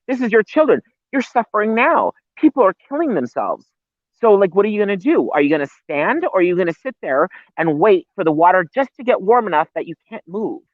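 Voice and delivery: pushing hard at the listeners, voice climbing high; outside voice. Real, not acted. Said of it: "My outside voice".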